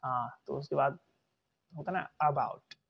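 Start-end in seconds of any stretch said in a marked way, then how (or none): 2.2-2.8 "about" with a short grunted uh; uh-BOUT, as if hit on the first sound; brief reduced opening in "about"; schwa start. Shown as a demonstration. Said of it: "जैसे किसी ने मारा हो".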